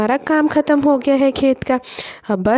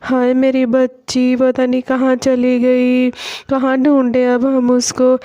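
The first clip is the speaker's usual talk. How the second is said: slow, understated tearful lament; a touch of a mother wailing for her lost child; mother's slow lament for her missing daughter, mildly tearful; mock crying wail; slower than usual. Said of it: "Sita ज़ोर ज़ोर से रोने लगती है".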